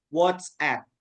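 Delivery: WhatsApp in English, ending in an open "app"; English pronunciation. Shown as a demonstration. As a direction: say WhatsApp carefully as "wots-app". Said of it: "you should pronounce it". (WhatsApp dilafalkan "wots-ep" secara Inggris)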